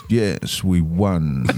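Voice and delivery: flat, deadpan line; emotionless. Retold or imitated. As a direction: say it with no feeling at all. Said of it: "With no emotion whatsoever".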